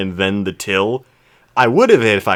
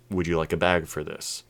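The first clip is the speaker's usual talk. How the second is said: slowed-down demo; 5 semitones lower, 7 dB quieter than usual. Shown as a demonstration. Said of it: "I just slow it down".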